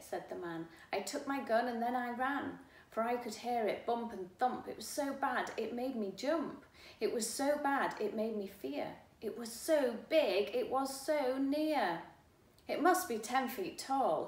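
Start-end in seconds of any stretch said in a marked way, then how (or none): 0.9-12.0 frightened man. Acted. Man describes the monster. 12.7-14.3 panicked man. Acted. Man describes the monster.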